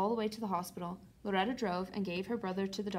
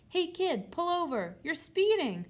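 high, loud order from a car window; yelling police officer; 8 semitones higher, 5 dB louder, slower than usual. A narrator's reading. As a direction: call out sharply to a speeding kid. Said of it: "rolled down the window and yelled".

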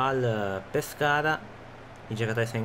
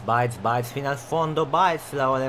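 excited play-by-play. Acted. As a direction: chant the player's name as he runs. Calling a fast attack live.

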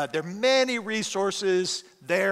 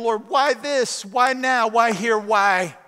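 rising, louder pleading questions; pleading why; 2 semitones higher, 4 dB louder, slower than usual. Retold or imitated. Pastor retelling his complaint to God, loud pleading. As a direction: press God for an answer, each why pushed harder.

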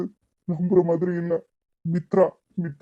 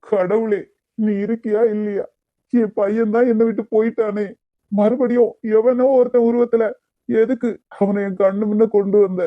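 grieving outcry; 3 dB louder than usual. Acted. Grieving father cries out to God.

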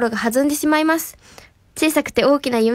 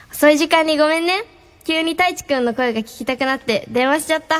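夜に甘えて電話する彼女; 照れながら少し甘く; 甘えた彼女の声. Pretend. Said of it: "私が言わせていただきます". (リスナーに頼まれた甘いセリフを言う彼女)

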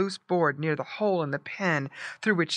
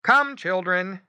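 slow, louder, higher call; lightly voiced parental summons; father pig calling; 4 semitones higher, 6 dB louder, slower than usual. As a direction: gather the piglets as their father. Father pig calls children.

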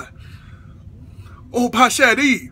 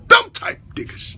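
ordinary talk, nothing marked

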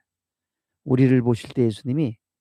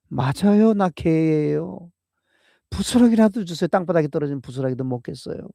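pleading woman; 5 semitones higher, 3 dB louder than usual. Acted. Canaanite woman pleading with Jesus.

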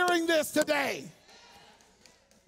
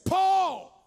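the demon speaking; 6 semitones higher, slower than usual. Acted. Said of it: "notice what the devil says".

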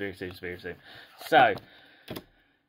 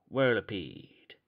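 put-on slow, drawn-out American cowboy accent; dodgy American accent; slower than usual. Collector naming a card for viewers, put-on American accent. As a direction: draw the card name out in mock American. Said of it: "gonna try my best American accent".

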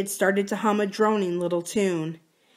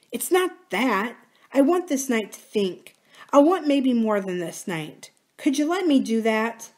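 a hint of Kathy, higher and pleading; lightly voiced pleading Kathy; 5 semitones higher than usual. Kathy asking Adam for a promise, lightly pleading.

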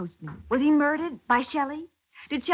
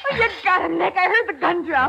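high, breathless relief; thrilled he won; excited relief; 7 semitones higher, 5 dB louder than usual. Acted. Patsy relieved after Nick disarms the killer, excited.

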